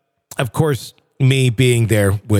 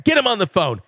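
higher, angry radio-host outtake tirade; Casey Kasem rant; 7 semitones higher than usual. Retold or imitated. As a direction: rant like a furious DJ off-air. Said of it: "Casey Kasem".

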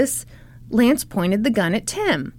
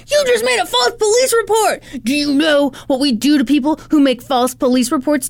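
bad cop menace; 5 semitones higher than usual. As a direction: lean on him like an angry bad cop. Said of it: "bad cop all the way".

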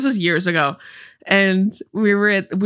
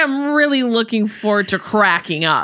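meme delivery; 2 semitones higher than usual. Shown as a demonstration. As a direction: quote the meme with emphasis on cracking up. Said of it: "you have to say it like that".

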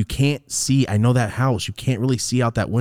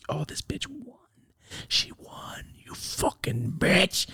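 whisper; 10 semitones higher, 8 dB quieter, slower than usual. Retold or imitated. Whispering to self outside window.

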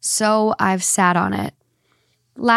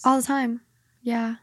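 whispering; 2 semitones higher, 5 dB quieter than usual. Real, not acted. Whispering about the neighbours.

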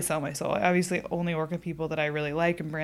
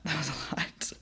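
laughing; 4 semitones lower, 6 dB quieter than usual. Real, not acted.

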